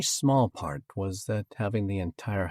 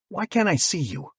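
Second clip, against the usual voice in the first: held-back shout; 10 semitones higher, 5 dB louder than usual. A narrator's reading. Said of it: "I growled, trying not to shout".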